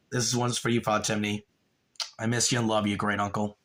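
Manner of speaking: low, soft and sincere; tender tribute. Real, not acted. Streamer addressing his late great uncle, tender. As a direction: speak gently to someone lost.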